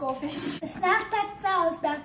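mock ad slogan. Parody ad slogan.

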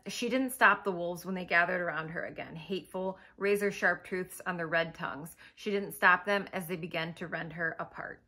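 measured story narration; understated audiobook-style narration; book reading. Acted. Reads a quote from book.

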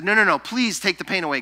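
Paul's hurried, begging plea. Retold or imitated. Paul begging God a second time, quick pleading. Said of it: "He said".

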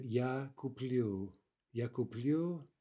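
куплю stressed on -плю, said deliberately; stress on final syllable. Shown as a demonstration. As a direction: lean on the last syllable of куплю. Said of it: "Now the stress shifts backwards".

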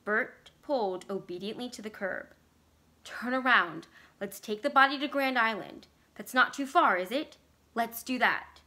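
wife pleading with husband to leave town, anxious and loud; frightened plea. Acted. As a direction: push him to turn back, scared. Vicky panicking, begging to leave.

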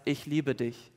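softly, almost hushed; soft tender voice. Retold or imitated. Preacher voicing God speaking into the heart, hushed and tender. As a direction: lay it gently into the heart.

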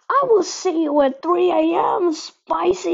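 mock threat. Threatens the eater jokingly.

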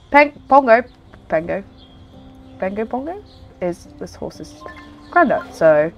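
stuffed up from a cold; blocked nose. Real, not acted. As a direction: push words through a blocked nose. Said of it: "it's like got a peg on my nose".

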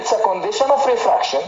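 very slow, deliberate reading of the line; teacher rereading the definition slowly to the class; slow read-aloud. Shown as a demonstration. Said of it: "يلا نقرا السطر تاني".

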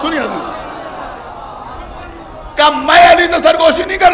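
loud, high, rising majlis oratory; preaching at full force. Acted. Preacher to majlis audience recounting the Prophet, full-force oration. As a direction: declaim it to the gathering, building to chanted climax.

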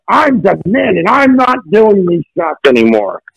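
retold diva-style protest; demanding diva. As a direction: play a mildly hammed-up demanding star. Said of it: "demanding like I'm, you know, Gloria Gaynor".

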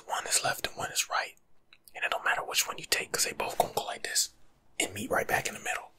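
hushed encouraging whisper; ASMR whisper. Acted. ASMR host reassuring listeners at the end, whispering. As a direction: whisper it like a comforting send-off.

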